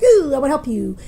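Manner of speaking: mock over-helpful offer; awkwardly eager. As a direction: imitate a flustered helper jumping in. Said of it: "super awkward".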